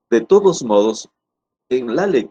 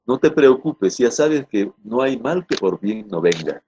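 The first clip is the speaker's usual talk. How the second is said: no break before the saying, smooth read-aloud; fluent, no pause. Shown as a demonstration. Teacher reads the example to the class, with no pause anywhere. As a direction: read "No te preocupes, ya sabes que no hay mal" in one unbroken flow. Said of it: "La lectura es fluida".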